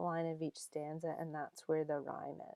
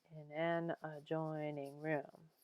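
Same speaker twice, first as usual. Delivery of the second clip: "in an adjoining room" slow, beats on AN, JOIN, ROOM; iambic stress; 4 dB quieter than usual. Shown as a demonstration. Teacher demonstrating meter, slow iambic "in an adjoining room". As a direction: scan "in an adjoining room" in slow short-long steps. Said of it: "that's iambic".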